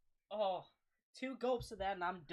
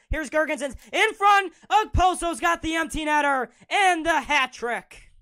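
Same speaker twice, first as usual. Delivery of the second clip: shouting, higher, pumped goal call; 10 semitones higher, 18 dB louder than usual. Acted. Commentator shouting the Okposo hat trick for viewers, ecstatic. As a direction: rise and roar as the empty netter goes in.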